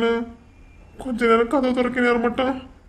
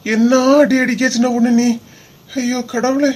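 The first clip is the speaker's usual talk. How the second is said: loud mock complaint; 4 dB louder than usual. Husband complains loudly, faking pain.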